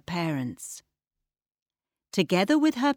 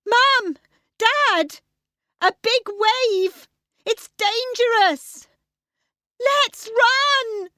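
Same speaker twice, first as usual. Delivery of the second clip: put-on very high, loud alarmed girl; urgent shouting; 5 dB louder, slower than usual. Tilly begs her parents to run, urgent high shout. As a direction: yell in short, high bursts of warning. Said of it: "Tilly shouted".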